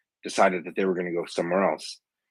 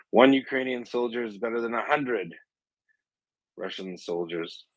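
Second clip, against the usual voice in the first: higher-pitched calling out, no real volume; mock distant yell; 4 semitones higher than usual. Joke teller as a Ukrainian taunting a Russian general, mock yell. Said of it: "the Ukrainian voice yells out".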